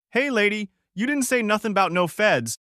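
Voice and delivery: lightly voiced thug, pitched high; a hint of a scared thug backing off; mumbling goon. A narrator's reading. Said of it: "One of them mumbled".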